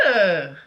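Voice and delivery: disgusted ugh. Retold or imitated. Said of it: "I was disgusted".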